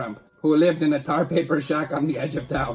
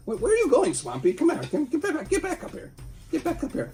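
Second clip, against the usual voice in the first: calling out high; 11 semitones higher, 3 dB quieter than usual. Real, not acted. Calling puppet back.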